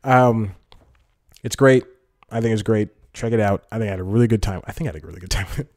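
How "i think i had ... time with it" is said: quick, softer second thought; hedging aside. Real, not acted. Vlogger second-guessing his review, quick soft hedge. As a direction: say it fast and low-key, half to yourself. Doubting own verdict before correcting it.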